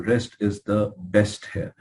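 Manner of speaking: very slow, words spaced out; slow emphasis. Shown as a demonstration. Doctor repeating his rule for students, slow and deliberate. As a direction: repeat the point slowly and deliberately. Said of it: "I mean, I'm telling you".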